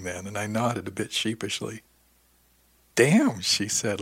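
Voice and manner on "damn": loud, high laughing exclamation. Acted. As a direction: burst out laughing on it.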